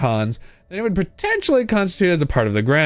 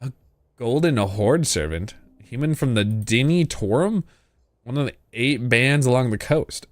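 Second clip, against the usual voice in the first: soft serene polite maiden. Acted. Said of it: "Voice of a priestess".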